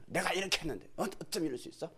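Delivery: mild imitated complaint; grumble, rising to a protest at the end; resentful grumbling. Believer counting their own efforts, mildly aggrieved grumbling. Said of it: "원망하고 불평하고".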